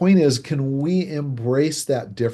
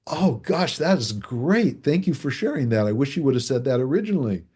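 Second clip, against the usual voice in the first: delighted reaction; 3 semitones higher than usual. Retold or imitated. A figurative speaker finally hears the emotion, mock delighted. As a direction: play up the sudden delight. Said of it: "that figurative talking style person is gonna go".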